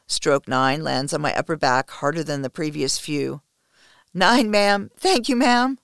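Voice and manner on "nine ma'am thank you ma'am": loud, high-pitched pained count; sobbed cry. Acted. Submissive counting a harder stroke, sobbed cry. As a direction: cry out the thanks in distress. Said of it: "I sob".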